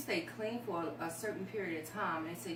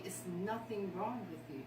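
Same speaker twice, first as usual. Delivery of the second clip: softer, quietly reassuring husband; gentle reassurance; 4 dB quieter than usual. Retold or imitated. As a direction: tell her gently there is nothing wrong. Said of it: "he told me".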